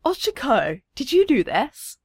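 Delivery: delighted mother, lifting in pitch; light, cheery motherly question; bright and cheerful. A narrator's reading. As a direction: ask a small child with cheerful wonder. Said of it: "Her mother's voice is bright and cheerful".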